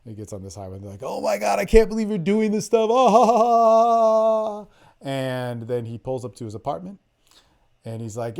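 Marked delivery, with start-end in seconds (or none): 1.0-4.7 imitating girls laughing. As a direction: play the girls cracking up in the car. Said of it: "And they all laugh".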